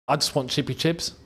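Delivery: a hint of a shy, quiet footballer; Cole Palmer impression. Mocking Cole Palmer asking his teammate for chips, softly mumbled. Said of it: "Cole Palmer's very easy to do".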